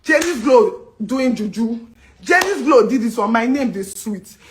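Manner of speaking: taunting impression of a blogger; mocking gossip. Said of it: "be like".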